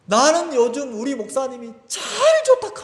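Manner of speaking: high, delighted gush about the pastor; gushing praise. Retold or imitated. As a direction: sell it like sudden delight. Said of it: "갑자기 뭐라고 하냐면".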